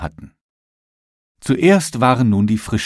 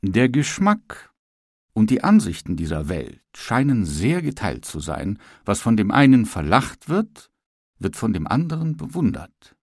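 philosophizing. Acted.

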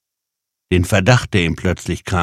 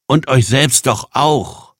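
high, slow, mildly indignant retort; drawn-out reproach; accusing retort; 7 semitones higher, 4 dB louder, slower than usual. Acted. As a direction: push the accusation home with raised pitch. Jan continues accusing the strangers.

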